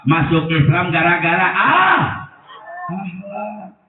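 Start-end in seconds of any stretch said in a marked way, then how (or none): 0.0-2.0 AH stretched out and raised for the crowd to answer; call and response prompt. Shown as a demonstration. Preacher prompting the crowd to finish the line. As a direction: leave ah hanging for the congregation to fill in.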